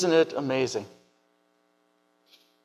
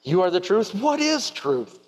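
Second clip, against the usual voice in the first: frustration and disgust; 2 semitones higher, slower than usual. Acted. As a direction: spit it out in weary disgust. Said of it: "say in frustration and disgust".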